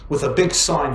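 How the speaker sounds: usual speaking voice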